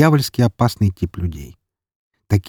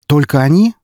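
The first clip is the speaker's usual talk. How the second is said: ТОЛЬКО ОНИ raised higher, rising at the end; surprised question; 6 semitones higher, 3 dB louder than usual. A narrator's reading. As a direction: question it in startled disbelief. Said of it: "удивился я". (удивлённый вопрос с подъёмом тона)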